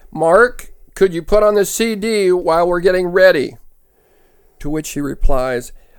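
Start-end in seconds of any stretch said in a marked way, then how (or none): 0.1-3.5 put-on calling voice, slightly louder. Retelling a couple's skit, the wife calling again: imitating calling a little louder. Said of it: "A little louder".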